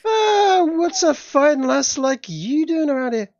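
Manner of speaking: put-on very high, slow Scottish accent; slipped into Scottish. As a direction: draw it out loud in a high-flown Scottish lilt. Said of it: "I've gone to Scottish again".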